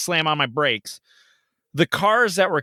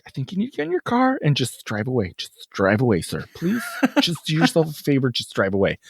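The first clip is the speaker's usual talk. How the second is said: calm lady. Retold or imitated. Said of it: "able to stay calm".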